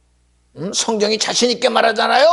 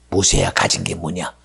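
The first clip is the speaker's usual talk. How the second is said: ordinary talk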